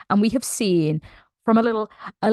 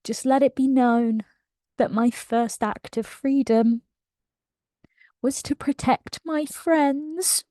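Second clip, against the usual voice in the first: choked-up quote. Retold or imitated. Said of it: "She says".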